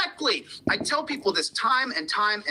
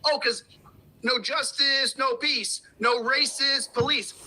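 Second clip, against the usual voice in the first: mock politician; 5 semitones higher than usual. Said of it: "The politicians go".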